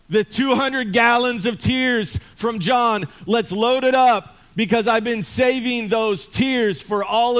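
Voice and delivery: hammed-up eager boss sending for trucks; excited God. God excitedly ordering U-Hauls.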